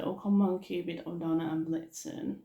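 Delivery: lightly imitated happy calling; happy imitation. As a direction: attempt someone's happy roll-call. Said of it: "he sort of did that a bit happy".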